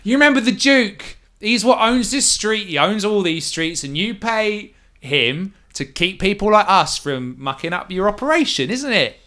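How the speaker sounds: nervous thug caught at knifepoint; collared ruffian pleading with the captor. Acted. Ruffian speaks to Vatic.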